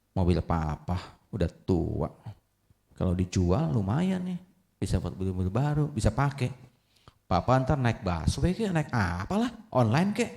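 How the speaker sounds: half-muttered plotting, lightly voiced; son's scheming thoughts. Son's inner thoughts, acted.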